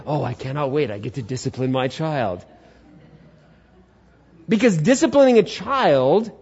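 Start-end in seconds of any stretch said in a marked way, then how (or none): 0.1-2.4 low, deadpan mock anticipation; dry, ironic delivery; sarcastic glee. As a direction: pretend you look forward to a chore. Mocking an absurd wish.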